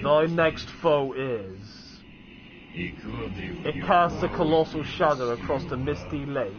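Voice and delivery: slow, measured reading of a portent; slightly solemn, drawn-out delivery; prophecy read aloud. Acted. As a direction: read it slowly like an ancient riddle. Reads out game's prophecy.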